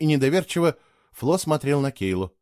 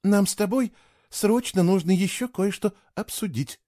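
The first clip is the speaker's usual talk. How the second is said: put-on high, placating girl's voice; smooth things over gently; conciliatory; 8 semitones higher than usual. A narrator's reading. Girl asking the boy to stay and talk, conciliatory. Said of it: "примирительно сказала Кейла".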